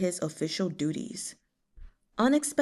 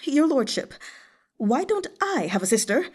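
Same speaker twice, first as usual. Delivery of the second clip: lamenting eunuch; 6 semitones higher, 3 dB louder than usual. Acted. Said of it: "slapped his knee and lamented".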